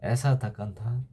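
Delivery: subdued, heavy close. Acted. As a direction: let it die away after a long silence. Bleak close of the monologue.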